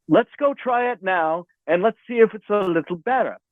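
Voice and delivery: lightly imitated English engineer; attempted English accent. Engineer coaxing the singer back to try again, attempted English accent. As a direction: coax gently with a rough English accent. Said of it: "in an English accent".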